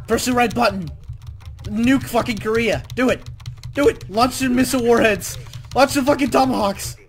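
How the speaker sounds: playful, insistent shouted commands; mock commands. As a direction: bark orders like a mock war room. Mock military orders while playing.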